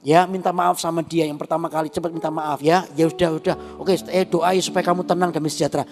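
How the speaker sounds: calm him down like a caring wife; good wife soothing. Retold or imitated. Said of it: "Itu wanita yang baik itu kan harusnya".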